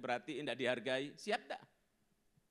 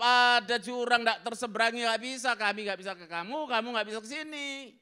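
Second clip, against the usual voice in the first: loud, firm refusal; Abraham refusing the rich man, stern; 9 semitones higher, 12 dB louder than usual. Acted. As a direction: lay down the law from across the gulf. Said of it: "Abraham jawab".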